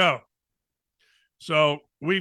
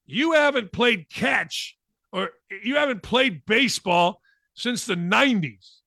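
scolding wife; 2 semitones higher than usual. Retold or imitated. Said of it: "I said".

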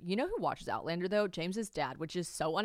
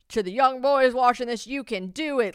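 inspirational speech; 5 semitones higher, 8 dB louder than usual. Retold or imitated. Mock inspirational Super Bowl speech.

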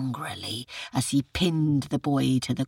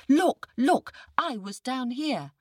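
impatient tiger; 9 semitones higher than usual. Acted. Tiger shows the pit.

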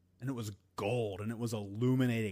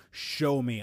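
a louder demand, not a full yell; mild mock scream of defiance; retold scream; 7 dB louder than usual. Narrator demands the octopus open the chest, louder. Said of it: "And I screamed".

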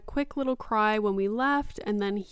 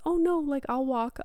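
lightly mimicked little kid, higher pitch; a hint of a toddler hurrying to agree; high mock-child reply, easing down; imitated child; 6 semitones higher than usual. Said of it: "And he just says".

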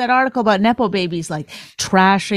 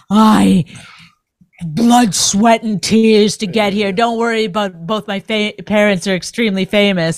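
mock nepo baby; 3 dB louder than usual. Host mocking a famous star's acceptance speech, pompous. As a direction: ham up the entitled star's sob story. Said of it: "It doesn't have to be".

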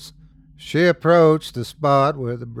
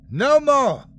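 high, loud enraged cry; mother screaming in rage; furious shout; 13 semitones higher, 6 dB louder than usual. A narrator's reading. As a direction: shout it mid-struggle, high and forceful. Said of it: "Esme shouted".

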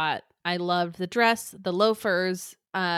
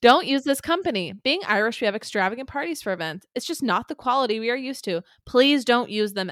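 higher, louder, fast hammed-up reading; mock Irish review voice; 4 semitones higher, 4 dB louder, faster than usual. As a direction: read it like an outraged reviewer. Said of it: "Pippa lookalike in one of these ads".

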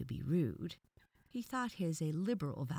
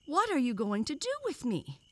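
alarmed demand; 10 semitones higher, 7 dB louder than usual. A narrator's reading. Captive boy demands to know his fate.

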